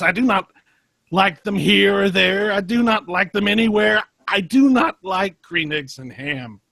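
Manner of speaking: high, loud frantic refusal; rising hysterical protest; dramatic outburst. Acted. Sam resisting Dracula's temptation, high, loud, frantic. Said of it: "very dramatic stuff going on".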